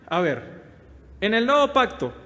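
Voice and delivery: ordinary talk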